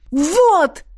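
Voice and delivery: high, loud "Вот!"; a jubilant shout of triumph; exultant cry. A narrator's reading. Ert points at Jaf and exults, high and loud. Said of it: "возликовал Эрт".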